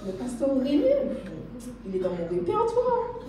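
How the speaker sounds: high voice, laughing through the words. Retold or imitated. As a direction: let the laugh break through the news. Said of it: "elle rigole".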